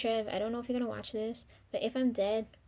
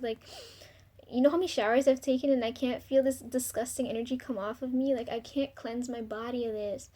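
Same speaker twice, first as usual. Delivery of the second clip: worked-up venting, louder in bursts; emotional, disgusted; 4 dB louder than usual. Real, not acted. Venting about relatives' negative energy, emotional and disgusted. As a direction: let real disgust push the voice up. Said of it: "I'm getting all emotional".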